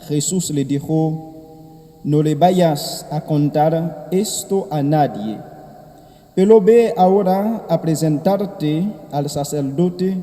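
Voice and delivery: soft, measured liturgical reading; Gospel reading. Acted. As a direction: proclaim the Gospel gently at Mass. Priest proclaims the Gospel.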